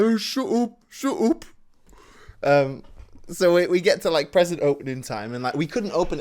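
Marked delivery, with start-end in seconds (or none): 0.0-1.4 high, loud mock-angry outburst; hammed-up exasperated older brother. Teased brother yelling back at sibling, mock furious and high. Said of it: "He gets so angry".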